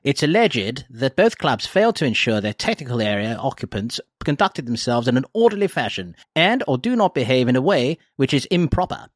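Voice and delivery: a light hint of an old newsreel announcer; faintly mock-formal read of an official statement; Pathé newsreel voice. Host reads the FA statement to co-hosts, lightly mock newsreel announcer. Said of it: "I'm gonna put on my Path News voice".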